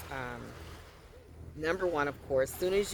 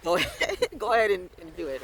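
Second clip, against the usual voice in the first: laughing; 5 dB louder than usual. Real, not acted. Laughing mock permission to God.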